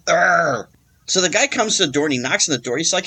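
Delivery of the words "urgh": frustrated groan. Retold or imitated. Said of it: "feeling just".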